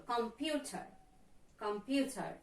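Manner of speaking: "computer" with the stress on PU; com-PU-ter, weight on the middle syllable; stress on second syllable. Shown as a demonstration. Teacher demonstrates "computer", second syllable stressed. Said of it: "second syllable".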